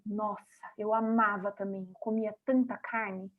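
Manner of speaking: quiet, friendly agreement; soft, sympathetic reply. Shown as a demonstration. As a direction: softly confide you loved meat too. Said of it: "Sabe o que que eu respondo?".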